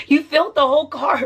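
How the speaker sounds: words bubbling with real laughter; laughing through quote. Real, not acted. Retelling husband's complaint to viewers, laughing. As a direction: quote him while laughing.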